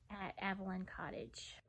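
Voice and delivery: soft whisper of the house's name; hushed reveal. Real, not acted. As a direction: breathe the name like a secret.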